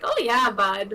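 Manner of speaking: lightly mocked Canadian accent; stereotype Canadian accent. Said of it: "You guys don't sound Canadian".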